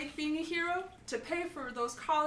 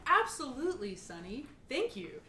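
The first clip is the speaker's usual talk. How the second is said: news reporter voice. Acted. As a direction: read it like a TV news host. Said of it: "It's like a news reporter voice now".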